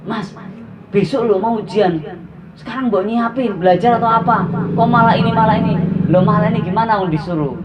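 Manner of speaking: wife protesting. Retold or imitated. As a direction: mimic the wife's scolding. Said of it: "istri saya itu protes".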